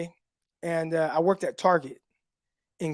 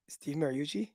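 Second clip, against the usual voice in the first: shocked; 4 semitones lower, 11 dB quieter than usual. Retold or imitated. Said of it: "I was, like, shocked".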